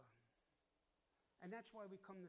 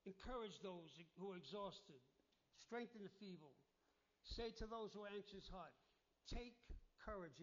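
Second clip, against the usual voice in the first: scripture reading. Real, not acted. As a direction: read it word by word for weight. Rereading the verse.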